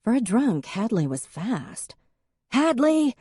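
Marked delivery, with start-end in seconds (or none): 2.5-3.1 high, louder call; yelling. A narrator's reading. Em yelling after Hadley running into the woods. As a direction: call her back hard. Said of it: "Em yelled".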